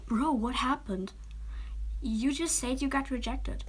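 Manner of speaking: best friend bursting in at the door, nearly yelling; almost yelling. Acted. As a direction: half-shout it out of worry. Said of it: "he almost yelled at me".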